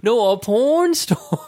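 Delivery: high, slow imitation of her Asian accent; imitated Asian accent. Coworker correcting his misunderstanding, high imitated Asian accent. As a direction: mimic her Asian accent, drawing out PORN. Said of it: "But with her accent".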